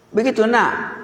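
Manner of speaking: high-pitched, mock incredulous check; taken-aback parent. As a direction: question the child in acted disbelief. Ayah kaget mendengar jawaban anaknya. (pura-pura kaget, nada tinggi)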